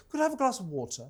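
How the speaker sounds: softly asked, WATER without an American R; non-American water. Retold or imitated. Ordering a drink in America, WATER said the non-American way. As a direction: say WATER the Australian way, with a clear T. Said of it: "say it in the American accent".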